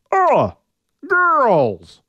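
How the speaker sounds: high, loud, rough caveman call; a scruffy brute trying to shout. Acted. Orion's scruffy attempt at calling the girls, loud. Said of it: "the scruffy sound of his voice".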